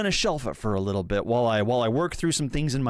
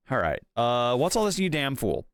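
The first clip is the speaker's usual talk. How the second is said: put-on vague British accent. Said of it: "Kind of a vaguely British accent".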